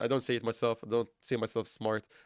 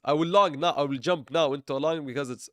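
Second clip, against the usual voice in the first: sarcastic. Acted. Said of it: "sarcasm, guys".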